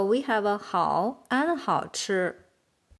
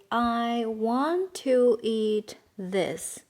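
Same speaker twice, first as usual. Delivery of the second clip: stretched-out words, evenly spaced; slow model sentence; much slower than usual. Shown as a demonstration. Teacher giving the sentence to translate, slowly and deliberately. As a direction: say it slowly for learners.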